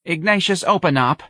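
high-pitched maternal plea; pleading. A narrator's reading. Mother at her son's closed door, pleading. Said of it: "Missus Riley pleaded".

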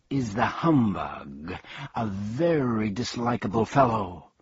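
disdainful bee. Acted. Bee introducing the humbug to Milo with mild disdain. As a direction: look down your nose as you say it. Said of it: "with complete disdain".

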